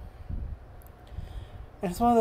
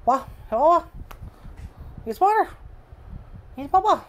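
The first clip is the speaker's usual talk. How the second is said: much higher, louder sing-song coaxing; 10 semitones higher, 4 dB louder, faster than usual. Real, not acted. Baby-talking the dog to drink.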